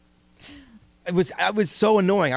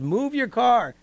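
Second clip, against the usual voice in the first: higher-pitched imitation of a yelling man; mock yell, pitched up; retold yell; 7 semitones higher, slower than usual. Man yelling at a neighbor over the doorbell app, retold yell. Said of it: "and he yelled".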